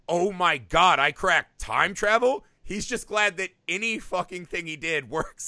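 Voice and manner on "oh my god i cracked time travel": louder, mock triumphant exclamation; overwhelmed elation. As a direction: imitate an inventor awed by his breakthrough. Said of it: "doesn't have the overwhelming".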